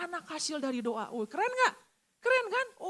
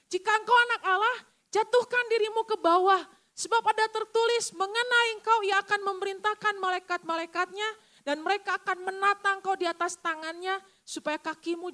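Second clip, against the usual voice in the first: dramatic scripture reading; 4 semitones higher, 5 dB louder than usual. Acted. Reading the devil's temptation aloud.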